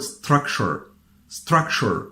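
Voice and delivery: STRUCTURE with a smooth English r, no trill. Shown as a demonstration. Teacher shows the English sound, smooth R in structure. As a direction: keep the r in STRUCTURE untrilled. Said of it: "in the R in English, you pronounce it as follows".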